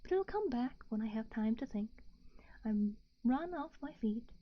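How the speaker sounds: hushed bedtime story narration; whispered story reading. A narrator's reading.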